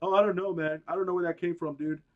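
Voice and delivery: a hint of a flustered, stammering Zuckerberg; dumb Zuckerberg. Mocking Zuckerberg caught off guard, lightly flustered. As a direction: stammer it out like a clueless tech boss. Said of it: "Mark looked like an idiot".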